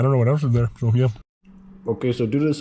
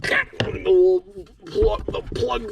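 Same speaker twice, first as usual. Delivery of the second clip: whisper; 8 semitones higher, much slower than usual. Real, not acted. Quietly pointing out a hidden plug.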